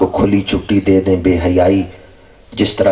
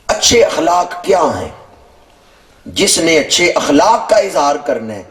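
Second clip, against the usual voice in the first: raised-pitch sermon delivery; higher-pitched preacher's emphasis; emphatic preaching; 7 semitones higher than usual. Real, not acted. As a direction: press the question home from the pulpit, pitched up. Preacher raises pitch for key point.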